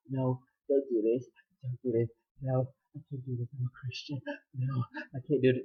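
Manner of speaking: quietly imitating a weak refusal; softly voiced retold reluctance; soft mock protest. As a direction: murmur a token, half-hearted protest. Retold half-willing protest in seduction.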